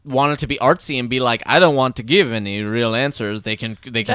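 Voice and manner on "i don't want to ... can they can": put-on muddled, accidental Spanish-sounding accent; botched Spanish accent, vaguely French; bad Spanish accent. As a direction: slip into a poor Spanish accent. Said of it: "worst Spanish accent I've ever heard".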